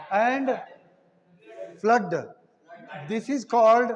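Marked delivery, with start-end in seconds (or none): 1.8-2.3 "flood" with a short uh, as in "cut"; cut sound. Shown as a demonstration. Teacher giving another exception, cut uh sound in "flood". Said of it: "pronounced as a cut sound".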